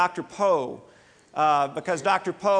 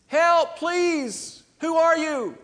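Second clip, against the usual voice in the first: desperate calling out; 11 semitones higher, slower than usual. Acted. Hanging from a branch, calling up for help in panic. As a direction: yell up the cliff in terror. Hanging man calls up again.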